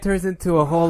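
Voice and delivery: ordinary talk, nothing marked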